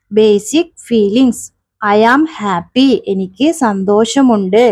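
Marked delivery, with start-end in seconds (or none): 1.8-2.9 slow drill. Shown as a demonstration. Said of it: "teacher drilling phrase".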